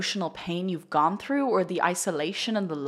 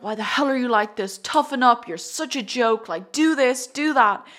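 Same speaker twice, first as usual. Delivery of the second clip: harsh self-scolding; 5 semitones higher, 3 dB louder than usual. Retold or imitated. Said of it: "You're like".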